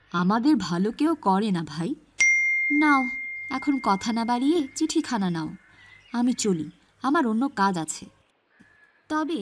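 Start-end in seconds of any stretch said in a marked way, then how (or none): 0.1-8.0 loud, hurried brush-off; brusque postman. Acted. Postman brushing off Rahim's thanks, loud and hurried. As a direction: wave him off, busy.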